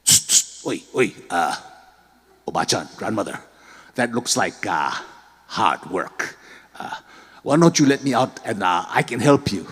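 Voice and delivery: sneaky, low, coaxing creature; sly tanuki voice. Acted. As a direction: wheedle her to let you out. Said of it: "looking at her going".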